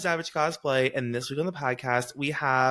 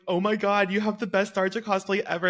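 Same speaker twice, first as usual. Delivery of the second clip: higher, excited mock fan gush; retold gushing; 6 semitones higher than usual. Cosplay group meeting their Tharja, retold gushing. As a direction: re-enact a delighted compliment.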